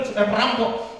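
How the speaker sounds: normal talking voice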